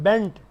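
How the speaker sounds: "bent" ending on a pure t; unaspirated t. Shown as a demonstration. Teacher contrasting bent with teach, t of "bent" unaspirated. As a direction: finish "bent" without a puff on the t. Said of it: "non aspirated sound है".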